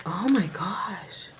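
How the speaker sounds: whisper. Real, not acted. Awed by foils.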